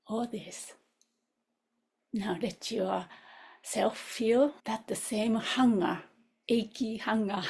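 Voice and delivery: unhurried phrases with long reflective pauses; guided contemplation. Real, not acted. Teacher links the master's struggle to students' own, meditative guidance. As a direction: lead listeners inward, leaving room after each thought.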